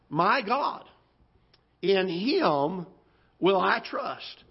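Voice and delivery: deliberate Bible reading with weighty pauses; scripture reading. Acted. Preacher asking listeners to notice what the psalmist says, deliberate scripture reading. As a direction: read it phrase by phrase, slowing into the last words.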